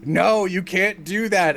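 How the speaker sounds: stern general. Retold or imitated. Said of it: "as a general to".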